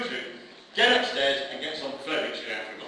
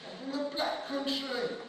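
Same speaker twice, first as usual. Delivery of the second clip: loud, higher, exasperated denial; indignant protest; 9 semitones higher, 5 dB louder than usual. Acted. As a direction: snap back at the insult. Angry correction of nickname.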